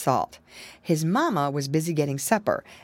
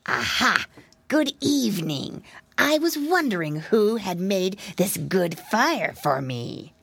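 sly fox. Acted. Fox speaks from shadows.

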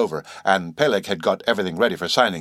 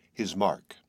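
whisper; 7 dB quieter than usual. A narrator's reading. Chapter title read softly.

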